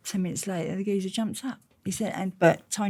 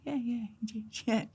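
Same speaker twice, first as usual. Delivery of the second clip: higher, softer hurried agreeing; under pressure; 6 semitones higher, 9 dB quieter than usual. Retold or imitated. Agreeing under pressure in the office, softer and higher. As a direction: give in nervously. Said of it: "under pressure".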